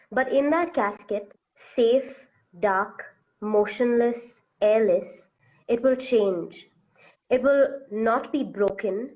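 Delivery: measured, deliberate reading of a beloved quote; quote recitation. Acted. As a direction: recite it in separate, weighted phrases. Reads a favourite quote aloud.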